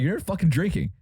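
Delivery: teasing friend. Retold or imitated. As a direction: needle him like a tipsy buddy. Retelling friend's drunk teasing.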